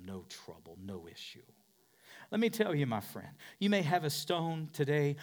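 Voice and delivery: ordinary talk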